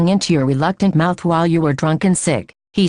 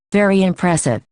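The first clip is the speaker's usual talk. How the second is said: icily polite. Acted. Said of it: "Christian sounds icily polite".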